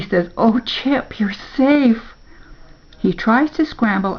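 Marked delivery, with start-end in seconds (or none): 0.4-2.1 higher-pitched, relieved exclamation. A narrator's reading. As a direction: let relief lift the voice. Rescued dog surfaces.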